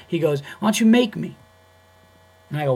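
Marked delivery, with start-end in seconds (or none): 0.6-1.4 retold confrontational dare, high and loud; dead-serious challenge. Club employee challenging the comedian, dead-serious dare. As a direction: mimic a guy picking a fight. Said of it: "he was dead serious".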